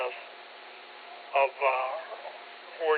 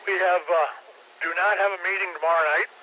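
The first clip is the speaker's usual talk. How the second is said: mouth full; 3 semitones higher, 4 dB louder than usual. Real, not acted. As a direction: still chewing while talking. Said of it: "Caught me with my mouth full".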